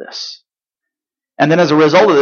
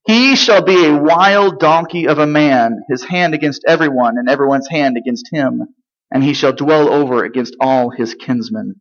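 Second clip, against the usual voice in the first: scripture reading. Acted. Reading God's words from Genesis.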